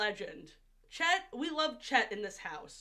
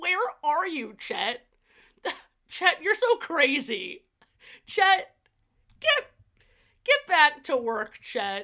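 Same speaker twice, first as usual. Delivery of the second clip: very loud, pitched-up female commercial announcer voice; 5 semitones higher, 8 dB louder than usual. Mimicking the voiceover woman from a Great Bear Lodge ad: commercial voiceover lady voice. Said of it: "the freaking voiceover lady is absolutely killing it. She's like".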